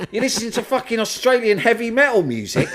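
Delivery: high, loud incredulous shout through laughter; big brother scoffing at an Australian band, shouting and laughing; mock outraged brother, laughing. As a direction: laugh while aping the brother's disgust. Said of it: "I remember him going".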